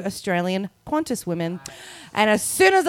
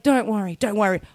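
lower, lightly imitated comforting voice; reassuring Australian woman; 3 semitones lower than usual. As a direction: soothe a crying passenger in retelling. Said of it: "She put her arm around me".

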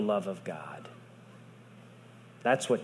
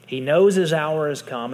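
said again with more force on knows; preacher repeating the line to the congregation, louder; louder restatement; 3 semitones higher, 5 dB louder than usual. Shown as a demonstration.

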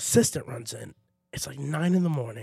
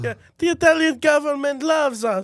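cocky pigeon husband; 5 semitones higher, 7 dB louder than usual. Pretend. Pigeon husband reassuring his wife before going out, high loud swagger. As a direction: brag that nothing can touch you.

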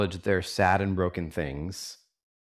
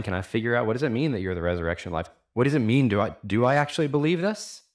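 wrestling with doubt; faster than usual. Acted. Preacher voices Martha weighing Jesus's claim, wrestling with doubt. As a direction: puzzle it through as an imagined Martha. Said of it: "she's wrestling with this above the line".

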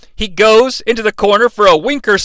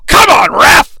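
pleading with the referee; 7 semitones higher, 5 dB louder than usual. Acted. Begging the referee during pin.

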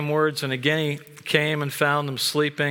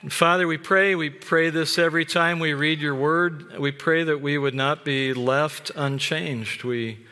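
prayer; 2 semitones lower than usual. Acted. Pastor praying over the congregation before preaching, reverent. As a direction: pray it humbly, unhurried.

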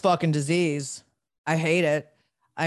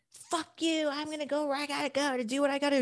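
retold angry outburst; 12 semitones higher, 4 dB quieter, faster than usual. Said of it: "And I was like".

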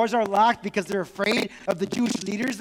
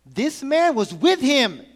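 higher, louder, slow accusation; accusing servant girl; 6 semitones higher, 5 dB louder, slower than usual. Acted. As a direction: point the finger slowly. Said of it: "She looked closely at him and said".

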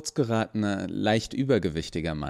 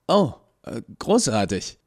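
relieved, higher and louder; relieved sigh; 3 semitones higher, 5 dB louder than usual. A narrator's reading. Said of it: "seufzte Toni". (erleichtert seufzend, höher)

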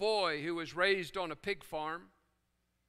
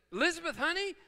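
calling out; 8 semitones higher, faster than usual. Retold or imitated. Grandmother calls her daughter.

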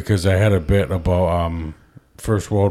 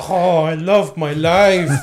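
high, slow put-on child voice; blissed-out kid; 6 semitones higher, slower than usual. Comic kid gushing about his kidnappers, high and slow. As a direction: drag it out like a doped-up happy kid. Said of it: "And they're just like".

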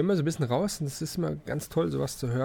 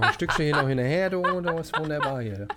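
laughing; 4 semitones higher than usual. Real, not acted. Laughing over food with friend.

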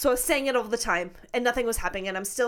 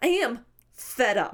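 fed up; slower than usual. Retold or imitated. Venting at the ghost, retold.

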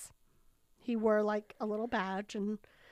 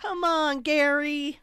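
mock exasperated call; 4 semitones higher, 7 dB louder, slower than usual. Calls out to a story character.

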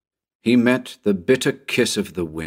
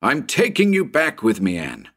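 higher, urgent call over the wind; yelled into the storm; 5 semitones higher than usual. Acted. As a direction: shout it into the storm. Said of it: "and yelled into the storm".

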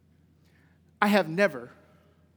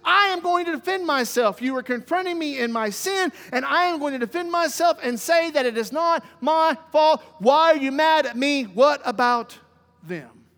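raised, insistent self-defence, lightly acted; defensive Aaron; 3 semitones higher than usual. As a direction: protest to Moses, then drop on the last word. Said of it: "Aaron looks back at Moses and goes".

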